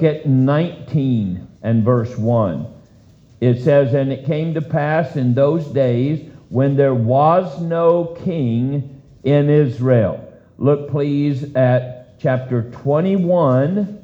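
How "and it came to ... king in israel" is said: slow scripture reading. Real, not acted. Reading verse.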